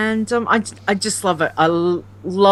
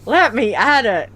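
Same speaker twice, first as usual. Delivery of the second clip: excited; 5 semitones higher than usual. Retold or imitated. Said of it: "and I just went".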